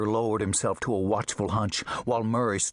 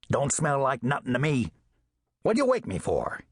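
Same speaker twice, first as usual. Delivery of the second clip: lightly voiced alley cat with a nasal twang, grumbling. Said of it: "he growled in his nasal twang".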